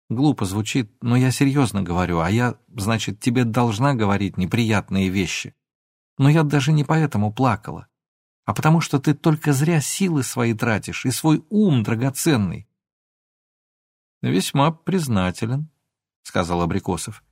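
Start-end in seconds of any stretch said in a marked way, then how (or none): none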